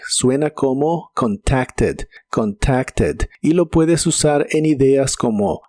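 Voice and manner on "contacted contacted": "contacted" slowly, with the final ED voiced as a soft "ed"; careful model of "contacted", light last vowel; soft E ending. Shown as a demonstration. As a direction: say "contacted" as three syllables, con-TAK-ted. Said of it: "pero con la E suave".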